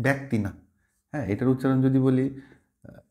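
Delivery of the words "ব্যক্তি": "ব্যক্তি" as bæk-ti; wrong bæ vowel. Shown as a demonstration. Teacher rejects this form, "ব্যক্তি" as bæk-ti. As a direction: open the first vowel of "ব্যক্তি" to bæ. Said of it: "এটার উচ্চারণ কিন্তু আর ব্যক".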